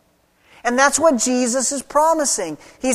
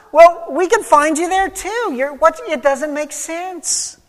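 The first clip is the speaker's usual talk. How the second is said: confused bewilderment; 4 semitones higher than usual. Retold or imitated. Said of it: "how confused and bewildered they are".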